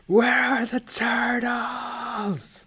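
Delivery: hushed, breathy whisper. Pretend. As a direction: whisper it like a secret. Whispered aside.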